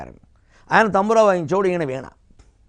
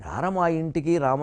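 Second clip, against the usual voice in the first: slow, softer heartfelt "రార మా ఇంటికి Rama"; sincere invitation; 5 dB quieter, slower than usual. Shown as a demonstration. Teacher showing singers how to truly invite Rama, slow and soft. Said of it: "నిజంగా ఆహ్వానించాలమ్మా".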